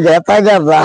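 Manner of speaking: গেতা with an e sound, not গীতা; the father answers only with his garbled গেতা; mispronounced Gita. Retold or imitated. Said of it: "গীতা উচ্চারণ হয় না".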